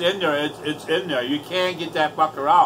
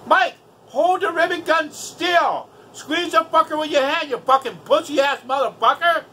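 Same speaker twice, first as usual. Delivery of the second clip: imagined angry telling-off; 8 semitones higher than usual. Retold or imitated. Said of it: "I didn't say that, but I wanted to".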